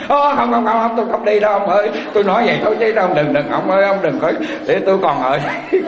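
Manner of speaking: comic frantic backpedalling, pitched high at first; hammed-up widow suddenly scared of being taken along; panicked widow. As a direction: blurt out hurried refusals in mock panic. Widow thinks coffin pulls her in.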